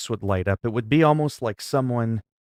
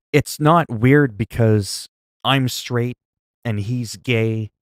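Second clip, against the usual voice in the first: slow; much slower than usual. Real, not acted. Clarifying a point emphatically.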